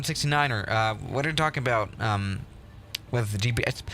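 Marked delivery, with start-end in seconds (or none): none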